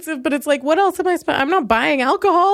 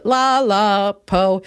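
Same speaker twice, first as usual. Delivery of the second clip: usual speaking voice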